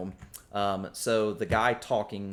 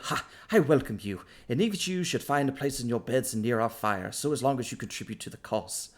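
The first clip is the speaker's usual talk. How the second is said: put-on old half elf; 4 semitones higher, 3 dB louder than usual.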